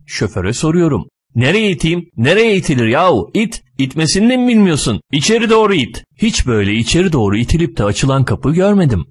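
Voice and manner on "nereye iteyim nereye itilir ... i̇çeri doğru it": higher-pitched, impatient retorts; exasperated bickering. Acted. Driver answers passenger asking where to push, exasperated bickering. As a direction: scold someone who cannot manage a simple push. Quarrel over which way to push.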